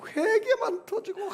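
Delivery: high, slow, breaking voice; tearful cry. Retold or imitated. Pastor reliving his tearful repentance, high and breaking. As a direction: let the repentance burst out in tears.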